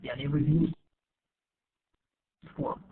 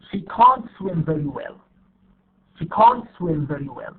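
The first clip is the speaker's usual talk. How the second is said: CAN'T with a full open vowel and clear weight; stressed CAN'T; 3 dB louder than usual. Shown as a demonstration. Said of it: "here we have negative".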